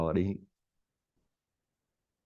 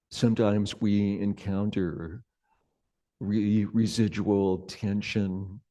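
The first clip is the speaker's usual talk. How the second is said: unhurried meditation guidance with long pauses; guided meditation. Real, not acted. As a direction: gently guide them into sensing the body, leaving space between phrases.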